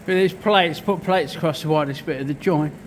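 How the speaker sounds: breathless from lifting steel; panting between words; out of breath. Real, not acted. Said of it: "Fucking hell, I'm out of breath".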